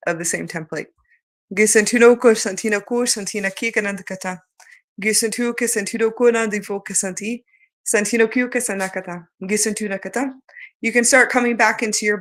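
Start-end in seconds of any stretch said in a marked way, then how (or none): 1.5-10.3 soft murmured light language chant. Acted. Speaker channeling light language, softly fading chant. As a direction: let the syllables fade softly.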